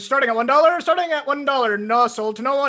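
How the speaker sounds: high, loud auction calling; auctioneer. Pretend. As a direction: call the bids like an auctioneer. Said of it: "if you're auctioning something, what would you say?".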